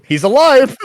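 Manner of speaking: loud, high exclamation; excited cry. Acted. Learning the stranger on the comms survived, excited shout. Reacting to character being alive.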